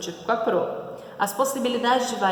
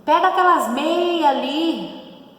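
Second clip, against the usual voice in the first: higher, louder, slow mock call to a brother; casual order; 8 semitones higher, 6 dB louder, slower than usual. Sibling told to grab the socks, mock call. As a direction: call out to your brother at home. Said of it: "você fala lá pro seu irmão".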